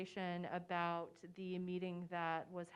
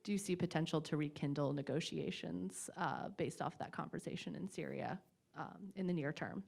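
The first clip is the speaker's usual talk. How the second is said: muffled through a face mask; talking through a mask; through a plague doctor mask. Real, not acted. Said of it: "Can you hear me through my mask?".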